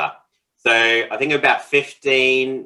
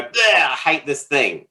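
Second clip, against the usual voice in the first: mock outburst, slow disgusted start; victim puke; 3 semitones higher, slower than usual. Frustrated partner doing the dishes, mock venting. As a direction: blurt out a pretend gripe. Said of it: "do what he calls a victim puke".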